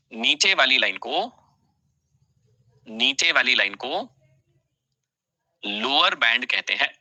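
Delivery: slow, drawn-out phrases for note-takers, pausing between them; slow dictation. Real, not acted. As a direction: dictate slowly with spaced-out words. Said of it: "मैं बहुत धीरे धीरे बोलता हूँ". (धीरे-धीरे लिखवाते हुए)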